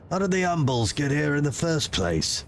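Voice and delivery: loom over him with cold authority; stern commander voice. Acted. Player character voice.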